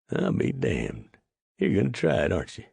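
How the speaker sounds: put-on old trapper realizing his friend will go; surprised realization. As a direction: catch on, amazed, in the trapper's voice. Clyde realizes Art's plan.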